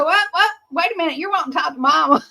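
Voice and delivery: surprised daughter. Retold or imitated. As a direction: rush it out like a startled teenager. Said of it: "And she'll say".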